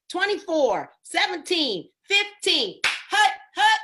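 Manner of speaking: mock huddle call, building up; calling the play. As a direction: call the numbers like a quarterback. Quarterback calling out play numbers.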